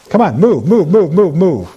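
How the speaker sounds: loud rising commands to move; commanding shout. Real, not acted. Preacher commanding spirits, loud repeated move.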